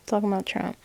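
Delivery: ordinary talk, nothing marked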